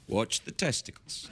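low, slow hushed hypnotist; hushed, drawn-out mock hypnosis. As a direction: intone it slowly to entrance someone. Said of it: "using hypnotic power".

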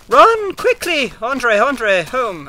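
high frantic yelling; panicked shout. Real, not acted. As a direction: scream at yourself to run. Fleeing danger, urging himself.

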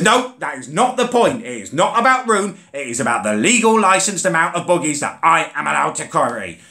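a fussy official reading out rules; mock bus driver voice.

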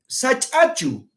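Sachachu lento y alto, como pregunta; slow question. Shown as a demonstration. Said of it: "pregunta también". (Sachachu, pregunta lenta y alta)

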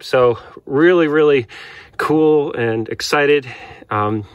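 shaky voice from the cold; talking while shivering and chilled. Real, not acted. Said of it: "I'm a little cold right now".

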